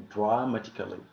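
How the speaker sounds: "Dramatically" carefully modelled as drah-matically; correct pronunciation. Shown as a demonstration. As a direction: say "Dramatically" with an open "drah" start. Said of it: "we pronounce it like".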